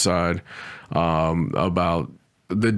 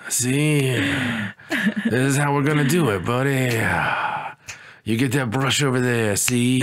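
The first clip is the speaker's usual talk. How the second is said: tough-guy hawk; 2 semitones higher than usual. Acted. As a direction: play the hawk as a hammed-up mobster boss. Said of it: "Is that how hawks talk?".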